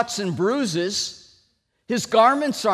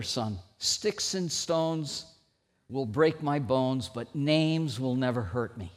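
fatherly advice; 7 semitones lower, 5 dB quieter than usual. Retold or imitated. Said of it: "told me that old saying".

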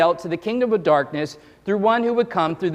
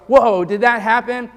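a touch louder, startled whoa; mock shock; 3 semitones higher, 5 dB louder than usual. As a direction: react as if you can't believe it. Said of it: "And you go".

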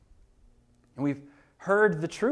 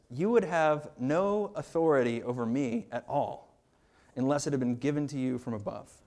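calm reply; 4 semitones lower than usual. Retold or imitated.

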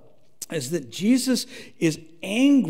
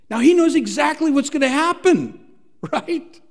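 1 laughing; 10 semitones higher, 5 dB louder than usual. Real, not acted.

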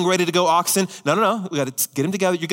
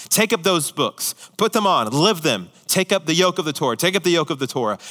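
rabbis' exhortation; 2 semitones higher than usual. Retold or imitated. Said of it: "they said things like".

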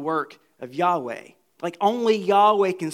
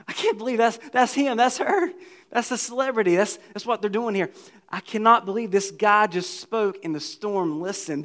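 starstruck disbelief; 3 semitones higher than usual. Retold or imitated. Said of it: "it's like seeing that celebrity".

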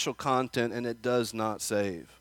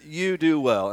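sarcastic; 4 semitones higher, 4 dB louder than usual. Retold or imitated. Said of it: "Notice the sarcasm".

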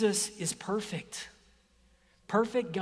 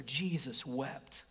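slow, quieter recitation; slow and soft; 4 semitones lower, 6 dB quieter, slower than usual. Shown as a demonstration. Preacher leading scripture memory, slow and soft. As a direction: let each word sink in. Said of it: "We're gonna do scripture memory".

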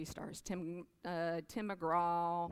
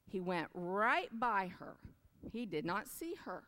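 storybook reading; 2 semitones higher than usual. A narrator's reading. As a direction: read it like a bedtime picture book. Reads picture book aloud.

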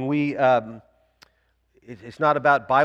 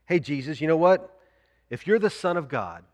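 sly, wheedling Satan voice; a hint of a taunting devil; mock tempter. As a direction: tempt him lightly, needling. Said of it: "Here it is".

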